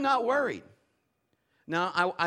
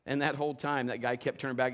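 ordinary talk, nothing marked

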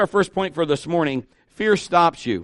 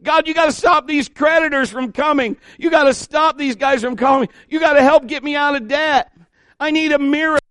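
loud, high, hammed-up pleading; mock desperate prayer; 9 semitones higher, 4 dB louder than usual. Pastor imitating a debtor begging God, loud mock plea. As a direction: shout at God for rescue, half mocking. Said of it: "and then we say".

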